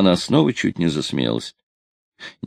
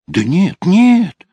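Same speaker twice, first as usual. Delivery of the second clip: high, loud, flustered denial; hasty protest; 13 semitones higher, 7 dB louder, much slower than usual. A narrator's reading. Sailor hastily reassuring the offended girl, hasty protest. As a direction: rush to deny it, voice leaping up. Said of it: "заторопился он".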